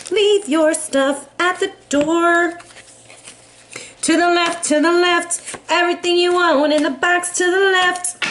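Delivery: half-sing the brush-off, playful; Libra's sassy dismissal. Acted. Libra to an ex, sending them off in playful sass. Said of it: "Libra said".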